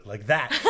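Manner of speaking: rumbling bison roar; bison bellow. Shown as a demonstration. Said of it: "Here's my, here's my bison sound".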